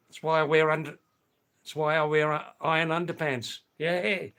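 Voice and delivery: loud joking. Real, not acted. Joking loudly about iron underpants.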